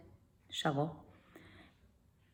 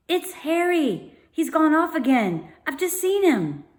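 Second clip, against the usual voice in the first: hushed urgent news; 9 semitones higher, 4 dB louder than usual. A narrator's reading. Sister reporting urgent news.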